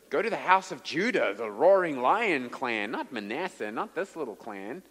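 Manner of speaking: whiny complaint, pitch swooping high; mock whining. Preacher voicing Gideon's excuses to God, exaggerated whining. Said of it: "What a whining objection".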